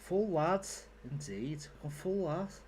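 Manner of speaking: lightly put-on Scouse; a touch of Scouse; mock Scouse. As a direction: play up the lad. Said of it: "you don't just say la".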